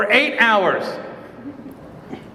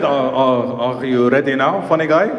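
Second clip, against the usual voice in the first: stern officer; 9 semitones lower than usual. Retold or imitated. Officer mocking, low voice.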